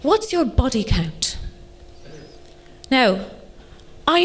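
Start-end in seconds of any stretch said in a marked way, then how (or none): 0.0-1.4 slow mock-posh English delivery; posh boyfriend. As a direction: imitate a posh English boyfriend asking carefully. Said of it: "he's awfully posh".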